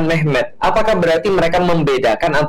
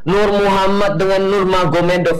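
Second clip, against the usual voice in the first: mock objector; 5 semitones higher than usual. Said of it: "nggak mengatakan".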